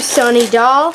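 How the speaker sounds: accidental touch of southern accent on "Sunny doll"; slight southern accent. Real, not acted. Naming a squishy for viewers, slight southern accent. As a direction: let "Sunny doll" slip into a light southern lilt. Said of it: "I said that with, like, a southern accent".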